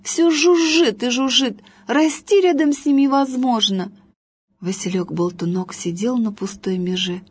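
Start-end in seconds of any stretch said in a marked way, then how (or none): 0.0-3.9 higher, complaining little voices; annoyed flowers. A narrator's reading. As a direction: grumble about the pest. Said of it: "говорили они".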